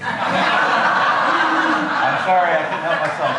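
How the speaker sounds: real laughter breaking through the words; laughing apology. Real, not acted. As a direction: apologise while cracking up at your own joke. Cracks up at his own joke.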